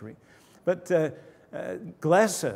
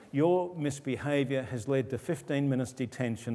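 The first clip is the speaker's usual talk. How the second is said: no expression; 3 dB quieter than usual. Shown as a demonstration. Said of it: "without any expression at all".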